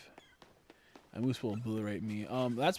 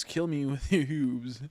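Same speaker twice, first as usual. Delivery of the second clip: slow mock moose; 5 dB louder, slower than usual. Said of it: "moose nose".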